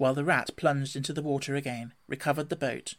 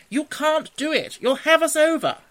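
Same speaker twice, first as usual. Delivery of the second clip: very high, loud warning shout; alarmed cry; 13 semitones higher, 9 dB louder than usual. A narrator's reading. Rat warns Mole the boat will capsize, crying out. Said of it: "cried the rat from the bottom of the boat".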